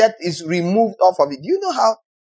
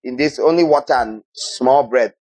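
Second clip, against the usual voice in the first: mock stingy God; 3 semitones lower than usual. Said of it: "Do you think God is going to say".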